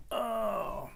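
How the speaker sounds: strained grunt while lifting; effort grunt. Real, not acted. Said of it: "Sorry if I'm grunting and groaning".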